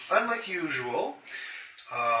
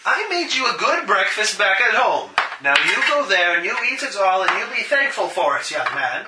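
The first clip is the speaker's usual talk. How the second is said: louder, stern mother scolding; 4 semitones higher, 6 dB louder than usual. Acted. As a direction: scold like a strict mum.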